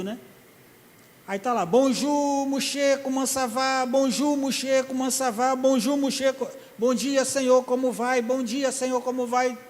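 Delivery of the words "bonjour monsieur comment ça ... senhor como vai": rehearsing greetings. Retold or imitated. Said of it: "Tentando aprender sem falar com sotaque".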